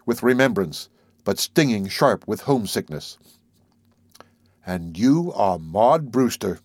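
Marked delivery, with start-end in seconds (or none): 4.6-6.6 slow, grave statement; solemn. Acted. Narrator gazing at Maud, solemn and slow. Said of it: "I said solemnly".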